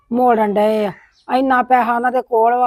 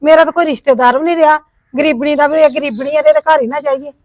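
angry complaint; 2 semitones higher, 4 dB louder than usual. Acted. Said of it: "ਇੰਨਾ ਨਾ ਗੁੱਸਾ ਕਰੋ".

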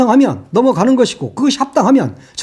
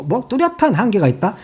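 mocking echo; 3 dB quieter than usual. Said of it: "홀로 할 수 있는 일에는 뚜렷한 한계가 있다".

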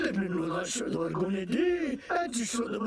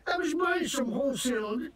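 fake Scottish accent. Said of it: "what the hell kind of accent is that, you fake-ass Scottish nonsense".

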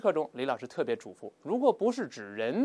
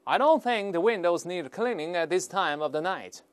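higher, louder sarcastic remark; 4 semitones higher, 5 dB louder than usual. Acted. Policeman below to a man at the windows, sarcastic. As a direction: call it up with pointed irony. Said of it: "when a sarcastic voice below said".

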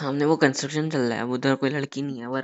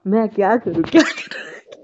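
mocking her line; 5 semitones higher, 4 dB louder than usual. He mocks her phrase.

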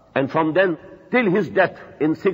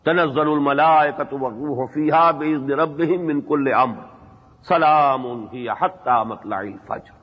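fast, flowing Quranic chant; Quran recitation; 3 semitones lower, much faster than usual. Acted. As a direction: recite the verses in a smooth tilawah. Recites a surah in Arabic.

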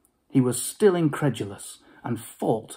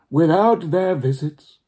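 ghostly Marley; 4 semitones higher, 6 dB louder than usual. Acted. Ghost speaking.

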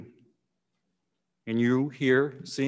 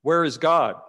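higher, a touch louder mock bellow; 3 semitones higher, 3 dB louder than usual. Exasperated pastor to the silent boy, higher mock bellow. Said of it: "and bellowed".

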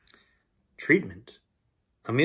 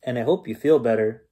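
lively bedtime story reading; story narration. A narrator's reading. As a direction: read it like a bedtime story to kids. Reads bedtime story aloud.

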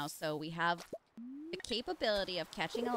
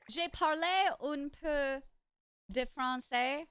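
attempted French; 4 semitones higher, slower than usual. Shown as a demonstration. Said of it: "J'ai parlé, wait".

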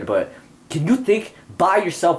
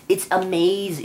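mocking actor; 7 semitones higher than usual. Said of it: "every fucking Hollywood actress or actor says that".

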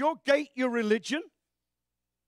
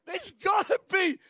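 louder call for more; loud urging; 5 semitones higher, 7 dB louder than usual. Real, not acted. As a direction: push the crowd, loud. Urging the crowd on.

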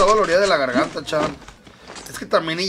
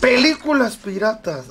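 loud then fading, slow; 4 semitones higher, slower than usual. Shown as a demonstration. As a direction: say "Películas piratas" loud and slow, then fade. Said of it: "así, o sea".

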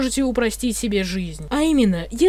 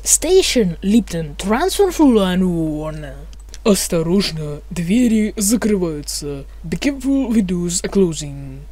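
metro announcer voice; mumbling subway conductor. Pretend. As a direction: read it like a train announcement. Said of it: "вы услышите информатор".

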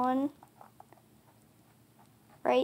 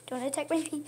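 mild scolding; 2 semitones higher, 6 dB quieter, faster than usual. Real, not acted. Owner to cat at her feet, mild scolding. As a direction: tell the pet off quietly.

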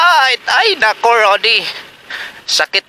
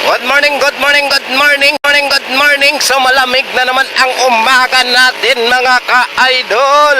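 cheery greeting; 5 semitones higher than usual. Real, not acted. Cheerful morning greeting to viewers.

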